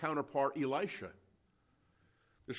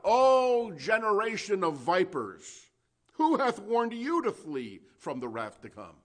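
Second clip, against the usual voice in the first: loud, high preacher's cry, slowly drawn out at first; yelled rebuke; 7 semitones higher, 8 dB louder than usual. Retold or imitated. John the Baptist yells to thousands at the Jordan, yelled rebuke. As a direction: thunder it out over a crowd. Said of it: "he yells out".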